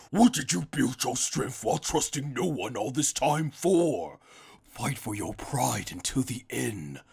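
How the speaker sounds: plead, then break into a cry at the end; Toppo's pep talk. Retold or imitated. Toppo urging Jiren, earnest plea swelling to a cry. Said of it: "Toppo goes ahead and yells".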